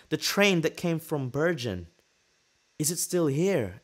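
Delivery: slow, high mock-tearful plea; loud, drawn-out pleading question; trying to cry. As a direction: drag it out, badly faking tears. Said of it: "I'm trying to cry so he cares more".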